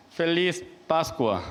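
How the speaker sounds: "Feliz Pascua" slowly, word by word; careful Portuguese greeting. Shown as a demonstration. Priest showing the Portuguese Easter greeting, careful slow "Feliz Pascua". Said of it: "이런 식으로 이제 발음을 하길래".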